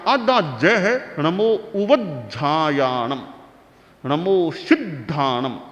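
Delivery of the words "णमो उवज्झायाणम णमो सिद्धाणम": "णमो उवज्झायाणम" said slowly with a nasal close; slow nasal ending. Shown as a demonstration. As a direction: drawl the ending "णम" through the nose. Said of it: "उच्चारण शुद्धि का भी हम ध्यान रखें।". (धीमे, "णम" को नाक से बोलते हुए)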